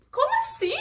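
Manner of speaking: high-pitched mock protest to God; incredulidade encenada. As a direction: squeal it in playful disbelief. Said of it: "Tem hora que eu digo". (incredulidade fingida, voz aguda)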